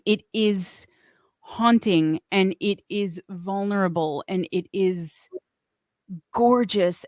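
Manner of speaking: hushed, awed whisper. Real, not acted. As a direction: breathe it out in a whisper. Awed praise of a song.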